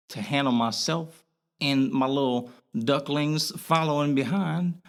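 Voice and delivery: Boston accent slipping into his speech; casual Boston accent. Real, not acted. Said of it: "you having your Boston accent right now".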